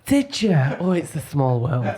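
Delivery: lightly voiced mum reacting to news. Son retelling mum's reaction to a chance meeting, lightly imitated mum. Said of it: "That's what my mum says all the time".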